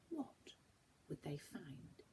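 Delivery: soft, breathy whisper; hushed narration. A narrator's reading. Narrator whispers the closing question to listeners. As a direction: draw them into the mystery.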